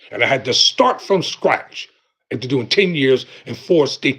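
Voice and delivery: grave, measured emphasis; serious preacher driving a message home; emphatic tone. Real, not acted. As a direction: press each point home in earnest. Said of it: "the tone of voice that I'm speaking in".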